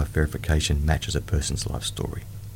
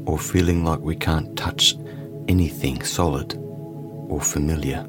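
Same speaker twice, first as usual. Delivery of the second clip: guided meditation. Acted. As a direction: ease the listener into calm.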